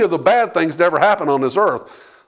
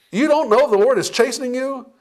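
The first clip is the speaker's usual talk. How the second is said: higher-pitched disbelieving question; acted incredulity, pitched up; incredulous; 6 semitones higher than usual. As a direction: throw the question back in mock disbelief. Pastor acting disbelief at a congregant.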